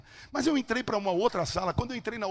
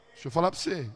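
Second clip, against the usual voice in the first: ordinary talk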